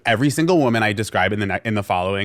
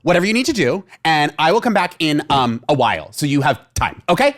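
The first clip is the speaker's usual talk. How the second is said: high nervous nurse; 6 semitones higher, 4 dB louder than usual. Retold or imitated. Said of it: "she's like".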